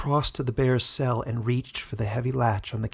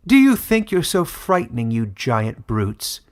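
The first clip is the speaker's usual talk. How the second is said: scoffing; 6 dB louder than usual. Acted. Verliston taunts the caged bear and wolf, scoffing. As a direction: sneer down at the caged beasts. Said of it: "scoffed Verliston".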